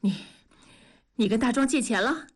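huffy, quick question after a halting start; panting with anger. Acted. Wife confronting husband over borrowed money, panting. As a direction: ask it through angry heavy breaths. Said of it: "文丽喘着粗气问".

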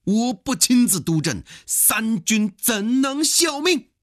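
high, loud, declamatory commander's retort; 李鸿章. Acted. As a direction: answer with heroic storyteller bravado, slowing on the question. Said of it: "李鸿章则回答说". (高亢激昂地反问，评书里的主帅口吻)

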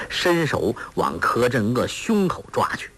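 plain reading voice

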